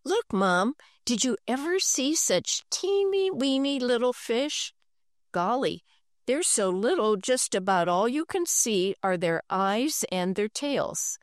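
put-on delighted boy. Boy showing mother baby fish, mildly delighted. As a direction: gush over teeny weeny fish. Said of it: "Henry was delighted".

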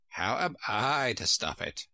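sheep character voice; sheep's retort. A narrator's reading. Sheep retorts to Alice about stopping the boat, character voice. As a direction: question her in the sheep's voice.

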